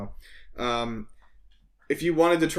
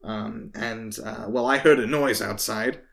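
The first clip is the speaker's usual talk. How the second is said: hesitant guard making excuses, trailing lower; lightly voiced town guard; 3 semitones lower than usual. Guard explaining his absence from the gate, hesitant excuse. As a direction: play a faintly sheepish guard, halting between phrases.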